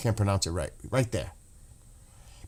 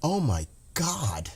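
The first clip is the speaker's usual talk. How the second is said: near tears; 3 semitones higher, 5 dB quieter, slower than usual. Real, not acted. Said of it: "I don't wanna start crying".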